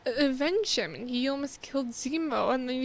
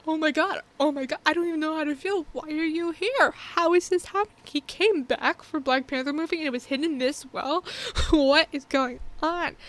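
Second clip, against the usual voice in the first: reliving the moment the villain returns; excited disbelief; 3 semitones higher than usual. Retold or imitated. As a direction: babble in thrilled shock, ending in a laugh. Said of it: "You're just like".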